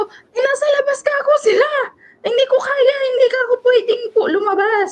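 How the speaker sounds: high, fast, tearful pleading as she relives it; reliving her panic, voice breaking on the verge of tears; retold crying. Telling her employer's child she cannot go out, near tears. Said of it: "tapos iyak na ako ng iyak".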